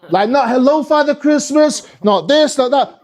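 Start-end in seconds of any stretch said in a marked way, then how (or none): 0.5-1.9 high, slow, sweet greeting; mock well-behaved kid voice, pitched up; polite child. How a normal kid would greet Santa, sweetly.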